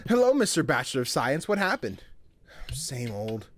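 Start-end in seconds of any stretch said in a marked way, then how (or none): 1.5-2.0 whisper. Acted.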